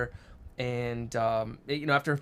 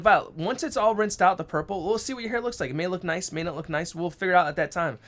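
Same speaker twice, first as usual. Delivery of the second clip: reassuring dad; 4 semitones higher than usual. Retold or imitated. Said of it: "I'm like".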